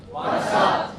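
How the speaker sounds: WhatsApp said as one high quick word; casual WhatsApp. Shown as a demonstration. Teacher showing what's up said as WhatsApp. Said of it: "क्या बोला मैंने?".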